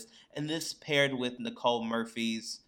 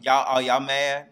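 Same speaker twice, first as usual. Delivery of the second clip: louder, slow mock shrug; half-hearted mock "are y'all mad"; mock dismissive; 7 dB louder, slower than usual. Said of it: "She was like".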